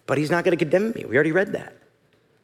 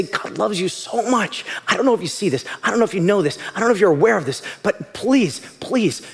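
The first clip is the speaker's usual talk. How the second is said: loving plea; 6 semitones higher than usual. Acted. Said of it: "being the voice of God".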